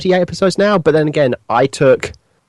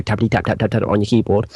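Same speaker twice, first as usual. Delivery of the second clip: typing sound; 5 semitones lower, 4 dB quieter than usual. Shown as a demonstration. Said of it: "That was the sound of typing on a keyboard".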